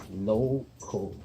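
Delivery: "local" drawn out with a long O. Shown as a demonstration. Teacher showing an open syllable, long O in "local". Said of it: "we hear the O".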